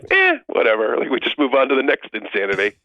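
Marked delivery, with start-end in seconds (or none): 0.1-1.0 mock dismissive.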